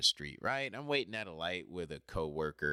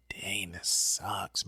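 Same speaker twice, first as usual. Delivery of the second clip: slow whisper; much slower than usual. Retold or imitated. Inner reaction at crosswalk.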